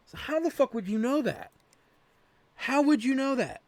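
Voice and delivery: high, mocking disbelief; incredulous scoff. Real, not acted. Gamer scoffing at the game's hint, high mocking disbelief. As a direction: sneer at how anyone could know.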